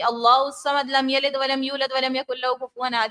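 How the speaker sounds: اللہ الصمد read quickly without stretching the vowels; hurried recitation, short vowels; no madd. Shown as a demonstration. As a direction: demo the rushed reading, madd not lengthened. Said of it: "اس طرح پڑھی ہوتی ہے".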